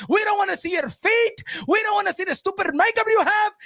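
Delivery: worked-up shouted tirade; berating rant. Acted. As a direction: fire off the insults like orders. Berating her over her looks.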